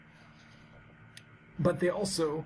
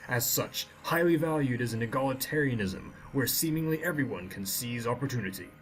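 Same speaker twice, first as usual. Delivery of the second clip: lore read like a bedtime story; storytime voice; 2 semitones lower than usual. Shown as a demonstration. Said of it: "with my best storytime voice".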